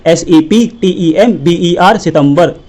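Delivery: slow letters then सितंबर the Hindi way; mock school reading. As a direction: spell slowly then say सितंबर. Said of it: "school वाले क्या सिखा रहे हैं".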